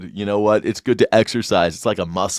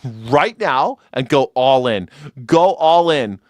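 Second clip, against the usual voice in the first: mock exhortation; 4 semitones higher than usual. Mock preacher-like challenge to believers.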